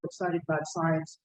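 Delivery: muffled behind a face mask; through a face mask. Real, not acted. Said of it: "I'm speaking through a mask".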